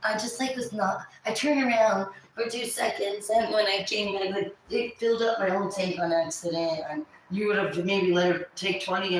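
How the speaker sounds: mimicking a friend's innocent excuse; Amanda's excuses.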